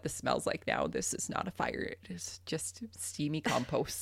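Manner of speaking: quiet aside. Retold or imitated. Retold calm thought to herself.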